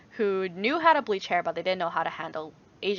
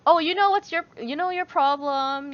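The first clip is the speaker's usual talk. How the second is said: dismissive therapist; 8 semitones higher, 8 dB louder than usual. Retold or imitated. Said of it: "they're like".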